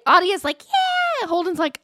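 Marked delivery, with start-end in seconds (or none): 0.6-1.3 high-pitched cheer; eager kid. Retold or imitated. Child asked if still okay, eagerly cheering. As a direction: imitate a child squealing yes.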